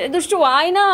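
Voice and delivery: coaxing call to come here. Real, not acted. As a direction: call him over from across the room. Mother calling her child.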